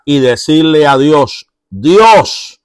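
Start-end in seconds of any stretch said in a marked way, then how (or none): 1.7-2.6 the psalmist, hidden in the cave, pleading aloud to God; raised pleading prayer. Retold or imitated. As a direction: beg God for help with urgency. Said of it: "elevar una oración, una súplica".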